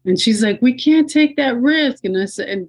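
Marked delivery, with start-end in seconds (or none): 0.6-2.0 high, firm medic voice; imitating a paramedic giving orders; acted insistent paramedic. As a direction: overrule the patient in a raised, urgent tone.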